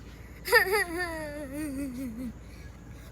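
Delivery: long, fading stuttered "huh-huh-huh"; drawn-out cartoon chortle; acted wailing laugh. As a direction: let a staccato laugh-sob trail away. Reaction after learning of the killing.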